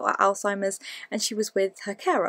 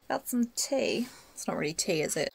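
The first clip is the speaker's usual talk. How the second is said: whispered aside; 6 dB quieter than usual. Real, not acted. Vlogger whispering to camera about her drink. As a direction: whisper it like a naughty secret.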